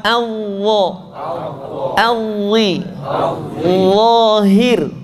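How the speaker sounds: ALLAH, ALWI, LAHIR with heavy buzzed onset; thick zo. Shown as a demonstration. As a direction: hold the thick sound slowly in LAHIR. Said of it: "Sehingga terdengar tebal". ("Lahir" dengan bunyi tebal)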